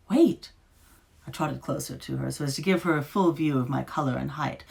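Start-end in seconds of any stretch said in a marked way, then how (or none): 0.1-0.5 high, loud call. A narrator's reading. Beast calling after the departing witch. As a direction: call her back before she goes.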